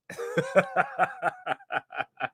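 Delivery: long run of high chuckles; real, drawn-out amused laughter. Real, not acted. Amused by the accent debate.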